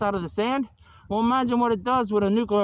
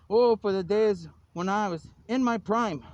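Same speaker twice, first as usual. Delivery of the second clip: slow, drawn-out nostalgic quote; mock wistful declamation. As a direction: declaim it slowly, longing for old days. Quoted lament for bygone days.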